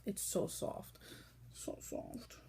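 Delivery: soft, breathy whisper of delight. Real, not acted. Whispering to viewers about the yarn's softness. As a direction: whisper it as you stroke the yarn.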